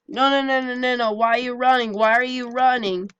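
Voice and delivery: high, loud frustrated no no no; exasperated, chasing a runner; frustrated cries. Real, not acted. Enemy fleeing mid-fight.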